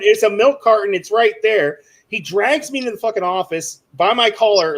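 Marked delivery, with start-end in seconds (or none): 0.0-1.8 mild mock yell of protesting kids; mock screaming kids. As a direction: imitate kids insisting, voice somewhat raised. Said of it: "I've got kids screaming at him".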